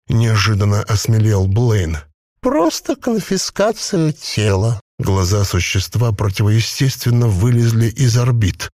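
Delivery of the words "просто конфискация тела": high, slow gurgling creature voice; a possessed corpse bubbling out its words. A narrator's reading. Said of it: "бульканье маслянистого варева".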